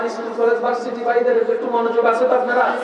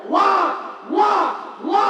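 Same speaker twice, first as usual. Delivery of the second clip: baby wail imitation; 7 semitones higher than usual. Shown as a demonstration. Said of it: "ভালো করে খেয়াল কর।".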